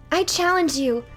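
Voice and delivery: high, loud battle cry; challenging shout. Acted. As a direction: call out the challenge. Knight challenges monster.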